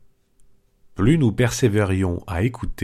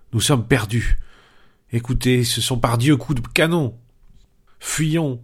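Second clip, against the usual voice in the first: higher, jittery cowardly pleading; panicked; 3 semitones higher than usual. Acted. Panurge urging flight at sea, frightened. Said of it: "Panurge s'écria".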